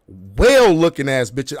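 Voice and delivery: normal talking voice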